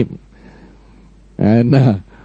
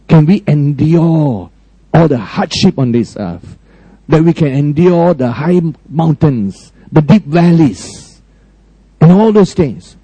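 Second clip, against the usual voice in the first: measured sermon delivery with long dramatic pauses; preaching. Acted. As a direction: preach it, pausing between phrases to let each land.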